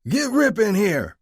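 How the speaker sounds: loud, slow, high call. Acted. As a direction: call it across the garage. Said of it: "I called out".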